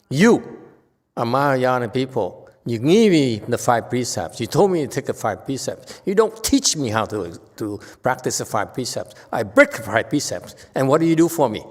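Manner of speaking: loud, accusing retold tirade; indignant complaint. Teacher replaying his complaint to Mahayana monks, loud and accusing. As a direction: scold them for leaving you alone with the rules. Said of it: "very upset".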